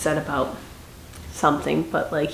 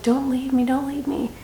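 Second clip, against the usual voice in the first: lightly voiced frightened pleading, higher; mock scared plea; 7 semitones higher than usual. Scared tribute begging Haymitch not to leave, mild mock fear. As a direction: imitate a frightened girl begging him to stay. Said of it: "she was so scared".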